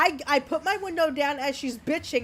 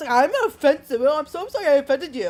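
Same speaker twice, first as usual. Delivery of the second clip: loud put-on California surfer bro voice; 4 dB louder than usual. Retelling their reply to a woman in line, in a California surfer bro voice. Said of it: "why a surfer bro voice?".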